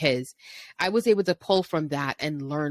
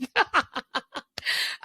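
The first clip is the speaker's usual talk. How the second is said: laughing; 9 semitones higher than usual. Real, not acted. Laughs at her own YouTuber act.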